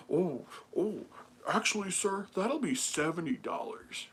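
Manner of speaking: a hint of an officious salesman; lightly voiced seller. Hat seller telling customer the price, lightly put-on voice.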